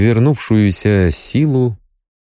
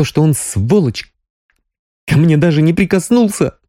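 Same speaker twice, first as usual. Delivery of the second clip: higher Sonya voice, hurt and bitter; bitter young woman; 7 semitones higher than usual. A narrator's reading. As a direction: spit out the insult, then sag. Sonya bitter about marriage.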